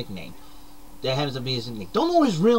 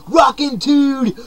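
eased-off catchphrase; 6 semitones higher, slower than usual. Acted. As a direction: let Rockin' dude roll out slow and lighter. Second take, calmer.

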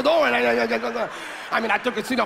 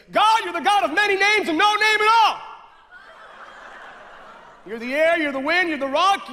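mystical prayer voice; 5 semitones higher than usual. Retold or imitated. Mocking the lady's mystical prayer.

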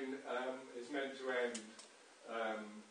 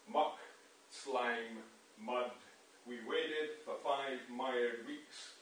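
slow, weighty verse reading with pauses; poem recitation; slower than usual. Acted. Lecturer reading his translation aloud, slow and resonant. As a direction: let every word land like a drumbeat.

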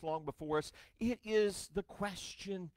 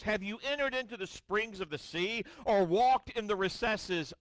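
voice of God; 3 semitones higher than usual. Acted. Preacher voicing God challenging Job, booming. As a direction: proclaim as a mighty God.

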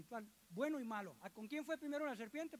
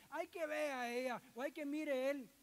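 bossy husband voice; 3 semitones higher, 3 dB louder than usual. Retold or imitated.

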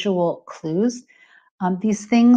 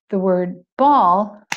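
"ball" said slow and loud, clearly marked; stressed word; 5 dB louder, slower than usual. Shown as a demonstration. Teacher sounding out "ball" for the class. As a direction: lean on "ball" and draw it out. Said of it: "the number of times I clapped".

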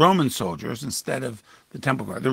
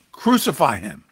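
louder crowd cry, words pressed down hard; 5 dB louder than usual. Acted. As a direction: call it out like the mob demanding death. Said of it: "And they cried out".

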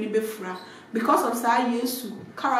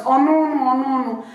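a light imitation of Miss G protesting, a bit louder; Miss G's voice; 5 dB louder than usual. Imitating Miss G refusing, lightly voiced. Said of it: "in Miss G's voice".

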